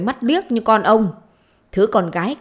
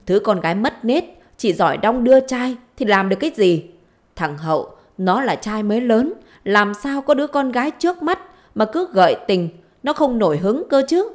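acted indignant wife, rising in pitch; angry retort; 3 semitones higher, 3 dB louder than usual. Wife blaming husband's daughter, angry retort. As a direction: throw the blame back, voice climbing.

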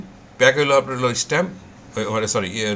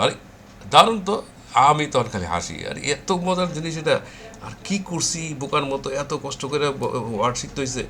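retold delight; 4 semitones higher than usual. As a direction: replay the moment of discovery with a light thrill. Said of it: "আমার মাথায় এসে বললো". (নিজের আবিষ্কারে অবাক হয়ে হালকা খুশির সুরে)

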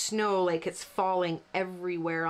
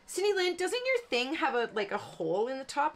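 imitated student; 5 semitones higher than usual. Retold viewer question in class.

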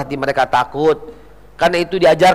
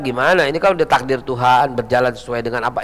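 lower, softening voice of an official; imitated excusing official; 7 semitones lower, 4 dB quieter than usual. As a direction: mimic an official shrugging off blame. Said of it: "pejabat yang bilang".

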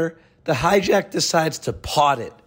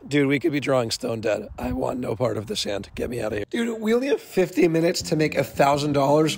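raspy voice from a cold; rough, worn-out throat; hoarse voice. Real, not acted. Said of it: "my vocal cords ... fried".

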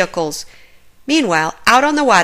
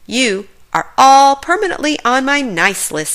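put-on hearty, jolly old Santa, louder; jolly Santa exclaiming; 4 semitones higher, 3 dB louder than usual. A narrator's reading. Santa thanks the pups on the pup pad, hearty exclaim. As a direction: beam it out like a happy Santa. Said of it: "Santa exclaimed".

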